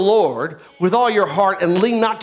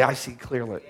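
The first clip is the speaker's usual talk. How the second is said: much lower and softer, calm; quiet voice of God; 10 semitones lower, 10 dB quieter than usual. Pretend. God answering the believer, soft and low. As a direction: settle it with quiet authority.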